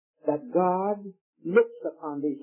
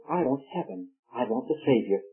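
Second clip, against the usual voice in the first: put-on childlike wish; 5 semitones lower than usual. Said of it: "the little ones would say".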